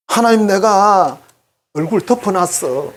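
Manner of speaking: slow, drawn-out, teasing with a laugh; the mistress giggling at her own trick; sly mistress. Retold or imitated. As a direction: stretch it out like a naughty secret.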